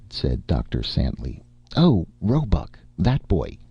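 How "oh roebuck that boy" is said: slow, higher sighing lament; a doctor's mournful sigh. Acted. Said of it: "he said mournfully".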